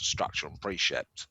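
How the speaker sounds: speaking without dentures; slurred by missing teeth; toothless. Real, not acted. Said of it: "sorry, I haven't got my teeth in".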